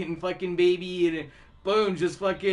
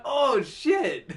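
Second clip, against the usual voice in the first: realising oh shit; 6 semitones higher than usual. Retold or imitated. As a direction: snap out the penny dropping. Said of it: "I'm like".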